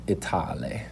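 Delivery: "Itale" whispered, EE-tah-lee; hushed "Itale" muttered under the breath; whispered aside. Shown as a demonstration. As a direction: breathe "Itale" softly to yourself. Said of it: "it would just be, like".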